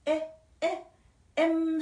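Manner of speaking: "에, 에, M" with the opening vowel isolated; sound demonstration. Shown as a demonstration. Teacher shows M starts with a vowel sound, isolated demonstration. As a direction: repeat short "에", then a drawn-out "M" as em. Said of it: "소리가".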